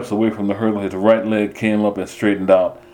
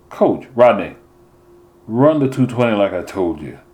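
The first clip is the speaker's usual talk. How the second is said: a stern coach voiced a little higher and firmer, lightly played; 3 semitones higher than usual. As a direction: lay down the rules to an impatient runner.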